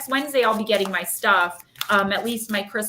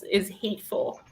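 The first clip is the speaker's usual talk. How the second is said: emotional; 2 semitones lower than usual. Real, not acted. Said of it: "very emotional".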